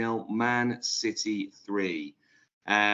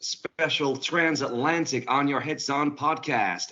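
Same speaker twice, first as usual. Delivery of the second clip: put-on American accent; 3 semitones higher, 3 dB louder than usual. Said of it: "my terrible American accent".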